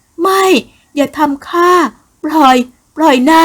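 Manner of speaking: very high, loud cries to be let go; terrified struggle. Acted. Woman fighting off her attacker, high panicked cry.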